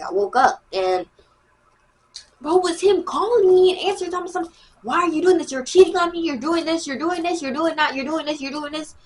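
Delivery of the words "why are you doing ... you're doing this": high, pleading mock boy voice; mock jealous boy, higher and whining; whiny accusing boy. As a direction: mimic the clingy boy nagging. Boy accusing her, voiced in story.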